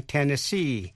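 Tennessee as "ten-nes-SEE"; stress on last syllable. Shown as a demonstration. Teacher modelling a state name, Tennessee stressed on the last syllable. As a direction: lean on the final SEE in Tennessee. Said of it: "nhấn mạnh ở vần cuối".

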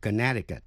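"Connecticut" with the middle c silent, like "kuh-NET-i-cut". Shown as a demonstration. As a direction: drop the second c in "Connecticut". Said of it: "Quý vị nghe lại". ("Connecticut" với âm c giữa câm)

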